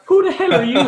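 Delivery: high, loud startled shout; retelling a stunned shout at a drunk customer; shocked shout. Retold or imitated. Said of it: "I went".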